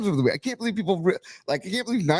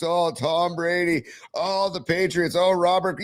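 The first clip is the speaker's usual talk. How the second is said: mocking fawning commentators, drawn out and higher; mock babbling; 6 semitones higher, slower than usual. Mocking the two weeks of Brady babble, slow and higher. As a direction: parody the gushing broadcast crew. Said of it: "just babble for two weeks".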